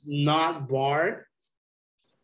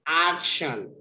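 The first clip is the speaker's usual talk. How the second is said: AC punched in "action", second syllable dropped; stress on first syllable. Shown as a demonstration. Teacher repeating an example of emphasis, first syllable stressed. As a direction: stress the start of "action", let it fall. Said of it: "You make this emphasis".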